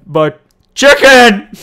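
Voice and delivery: slow loud hammed-up wail; mock wail. Gamer mourning his killed chicken in a mock wail.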